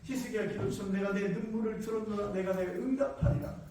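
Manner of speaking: the hoped-for kind answer; gentle God imagined. Retold or imitated. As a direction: answer like a consoling father. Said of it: "하박국 선지자는 하나님께서".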